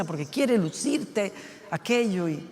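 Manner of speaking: usual speaking voice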